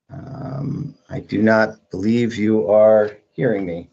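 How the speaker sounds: audio cutting out; call dropping out. Real, not acted. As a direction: voice breaking up on the line. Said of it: "Jeremy, are you there?".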